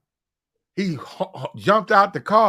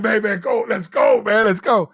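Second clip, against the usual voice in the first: higher, mildly shouted plea; retold urgent urging; 4 semitones higher than usual. Passengers to drunk driver, acted urgent urging. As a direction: imitate a passenger pushing the driver to leave.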